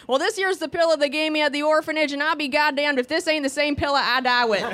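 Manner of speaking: a hint of a grizzled old miner; old prospector. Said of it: "Like we're some old prospector".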